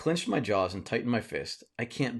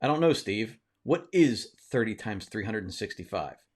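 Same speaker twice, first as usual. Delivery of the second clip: sarcastic voice. Retold or imitated. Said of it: "In my sarcastic voice".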